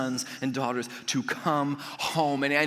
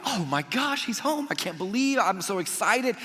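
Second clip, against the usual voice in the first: imagined excitement; 6 semitones higher than usual. Retold or imitated. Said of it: "would be like".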